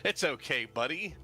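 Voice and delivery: mildly giddy, slightly lifted reassurance; a touch of excited, chummy encouragement. Acted. Jack slaps Darius on the back to reassure him, mildly giddy. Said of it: "all excited and giddy".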